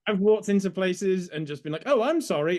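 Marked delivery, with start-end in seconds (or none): 1.8-2.6 hammed-up British apology, pitched up; exaggerated British accent. Brit abroad working the locals, exaggerated British accent. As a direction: lay on the British accent, higher and louder. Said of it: "it really turned on the British accent".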